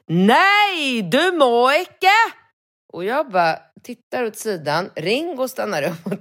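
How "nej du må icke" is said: high, slow, half-hysterical refusal; a touch of panic in the clerk's no; mildly hysterical. Retold or imitated. Bistro clerk stops him at the microwave, mildly hysterical. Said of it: "ett småhysteriskt".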